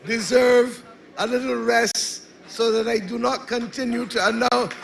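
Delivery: hoarse, worn raspy voice; tired raspy voice after campaigning. Real, not acted. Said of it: "in a raspy voice".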